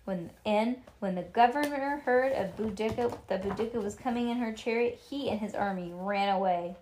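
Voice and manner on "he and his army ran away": plain reading voice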